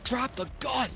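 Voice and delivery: high shouted command, last word drawn out; yelling orc. Acted. Game master as orc ordering Jimmy to disarm, drawn-out shout. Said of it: "the orc is just yelling".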